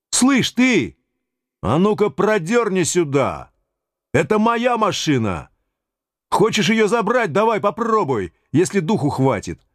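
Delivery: defiant yell at the bailiff; threatening shout. Acted. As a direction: bark it at him, daring him.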